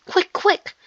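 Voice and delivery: high-pitched, urgent warning; urgent gasp. A narrator's reading. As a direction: call out quickly in alarm. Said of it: "he gasped".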